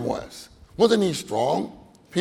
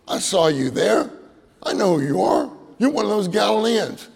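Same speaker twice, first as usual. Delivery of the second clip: put-on higher, louder accusing little girl; 6 semitones higher, 3 dB louder than usual. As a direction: point at Peter like a sharp-eyed girl. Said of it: "as a little girl".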